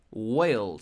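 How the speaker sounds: Whale said slowly as a clear English wel; teacher modelling Whale for Spanish learners, clear English; model pronunciation. Shown as a demonstration. El maestro pronuncia whale despacio, claro. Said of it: "¿Sabes qué es esta palabra?".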